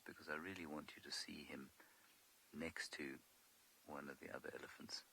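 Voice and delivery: soft whispered aside. Real, not acted. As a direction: keep the voice down. Waiting behind bush near elephants.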